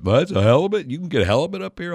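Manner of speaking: high, wide-eyed disbelief; surprised tourists. Retold or imitated. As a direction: gush like a fooled tourist. Tourists fooled by the halibut.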